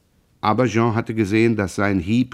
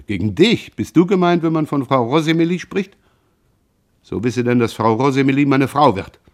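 louder and pitched higher, stung; defending the woman he loves, higher and louder; mocked and offended; 4 semitones higher, 3 dB louder than usual. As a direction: fire it back, wounded pride. Jean answers the mocking question.

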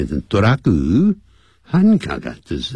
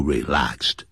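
softer; 7 semitones lower, 6 dB quieter than usual. Shown as a demonstration. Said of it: "所以我们人才会感到怎么样".

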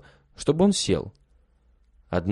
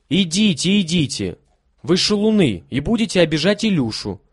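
put-on higher, urgent girl's voice; shooing brothers; 7 semitones higher, 3 dB louder than usual. A narrator's reading. Lilya chases her brothers away, crossly insisting. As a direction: drive them away crossly.

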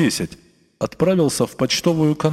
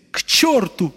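высоко и надрывно; выкрикнуть вслед со слезой; плачущий крик; 8 semitones higher than usual. A narrator's reading. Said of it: "крикнул он плачущим голосом". (плачущий крик вслед гостям)

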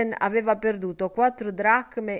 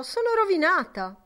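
despairing cry; 10 semitones higher than usual. A narrator's reading. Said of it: "gridò".

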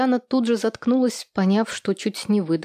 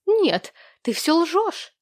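high, slow, outraged cry; exclaiming; 9 semitones higher, much slower than usual. A narrator's reading. Widow denying the divorce story, a high outraged exclamation. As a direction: hurl the denial at her accuser. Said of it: "воскликнула Екатерина".

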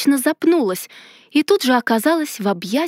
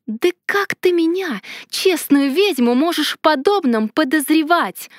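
much higher, slowed on честную ведьму; outraged attack; 6 semitones higher than usual. A narrator's reading. Heroine lashes out at the mage, high outraged accusation. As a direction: hurl the indignation at him. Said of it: "обрушилась я на мага".

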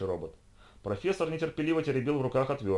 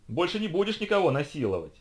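high, mild triumphant shout; 7 semitones higher than usual. A narrator's reading. Professor to the trapped robot, shouting. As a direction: cry it out, pitched up. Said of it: "выкрикивал он".

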